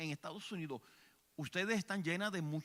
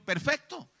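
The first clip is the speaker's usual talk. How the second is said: Jesús entusiasmado; 7 semitones higher, 15 dB louder than usual. Retold or imitated. Jesús responde a los discípulos.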